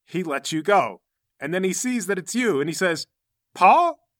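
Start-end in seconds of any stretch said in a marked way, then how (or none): 3.5-4.1 high, loud questioning cry; startled. Acted. Fighter recognizes the person he was strangling, startled. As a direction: blurt the name in startled disbelief. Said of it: "startled to see that he's strangling".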